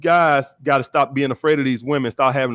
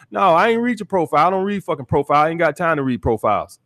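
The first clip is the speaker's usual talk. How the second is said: firm refusal settling down in pitch; standing your ground. Acted. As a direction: speak up for yourself, unapologetic. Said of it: "That's how you handle that".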